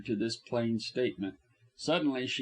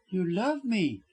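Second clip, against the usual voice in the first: mildly raised, tender wonder; soft murmur; 6 semitones higher than usual. A narrator's reading. Widow hearing the doctor's love, murmuring softly. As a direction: murmur it with a higher lilt. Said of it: "she murmured softly".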